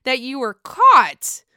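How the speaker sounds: high, loud, quick mock confrontation; retold challenge. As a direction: fire back as the sceptical host. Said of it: "And then Andy was like".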